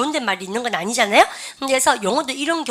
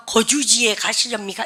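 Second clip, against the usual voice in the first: mock formal. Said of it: "비공식적으로 쓴다는 얘기는".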